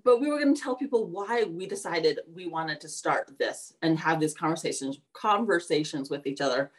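speaking around new braces; words slightly blurred by braces. Real, not acted. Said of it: "Sorry, braces".

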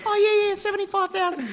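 squeaky high shout of a bid; high, loud offhand bidder. Pretend. Acting Con's outbid.

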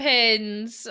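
"Tampons" said as "tampins"; mum's pronunciation. Retold or imitated. Friend echoing mum's word, "Tampons" ending like -pins. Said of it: "My mom calls tampons".

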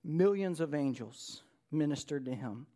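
slow, weighty preacher's reading; measured pulpit reading with deliberate pauses; dramatic scripture reading. Acted. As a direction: proclaim the vision slowly, letting phrases hang. Reads scripture aloud to congregation.

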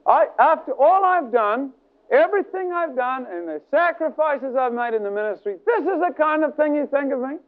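high-pitched, aggrieved outburst retold; mad protest. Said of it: "He said he got so mad".

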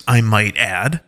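accusing wolf leader. Acted. Alpha Paw demanding why they killed Derek, pointedly. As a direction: lean on each word to accuse them.

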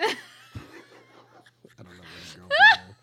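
said through laughter; laughing. Real, not acted. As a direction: laugh it out, stretching each word. Laughing at her answers.

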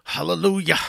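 loud, hammed-up church hallelujah; mock revival-meeting shout; preacher's hallelujah. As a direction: belt out "hallelujah" like a country preacher. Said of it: "Did you develop a good, deep hallelujah".

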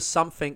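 "something" said as "sumfing". Shown as a demonstration. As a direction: swap the TH in "something" for an F. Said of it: "you know how some people say".

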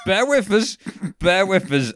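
high-pitched mock plea for patience; mock excuse. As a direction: pitch jumps up, playing the excuse-maker. Acting out a sheepish excuse.

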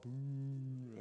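long playful boo; drawn-out crowd-style boo; mock booing. Shown as a demonstration. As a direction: boo the villain like a pantomime crowd. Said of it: "we all need to boo and hiss".

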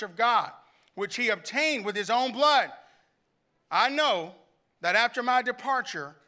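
measured, weighty reading with long pauses; lightly dramatized Bible reading; emotional scripture reading. Acted. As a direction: read Paul's farewell as if you feel it. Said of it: "I want you to hear his emotion".

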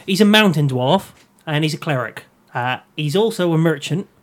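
put-on rural English Norfolk accent; country Norfolk burr for a dwarf. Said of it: "I'm gonna go with a Norfolk accent".

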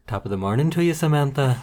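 a hint of a bad Irish accent; terrible Irish accent. Co-host greets Samantha in a terrible Irish accent. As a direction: toss off a lightly faked Irish greeting to Samantha. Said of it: "In a terrible Irish accent".

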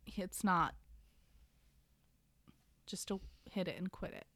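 hushed whisper, unvoiced. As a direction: whisper it like a naughty secret. Whispered aside on a romance plot.

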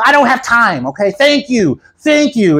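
high, mock-curt brush-off; angry little lady. Angry woman brushing off the pastor, mock annoyed. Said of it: "Angry little lady, man, very angry".

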